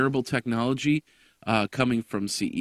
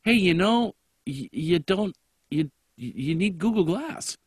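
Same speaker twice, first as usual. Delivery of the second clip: inner thought voice; 6 semitones higher than usual. Retold or imitated. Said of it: "It's like".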